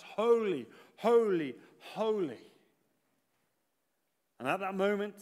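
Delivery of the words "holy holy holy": imitated seraphim calling out, fading on the last; moderately loud, reverent call. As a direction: proclaim each word separately, like a measured call. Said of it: "with the seraphim calling out".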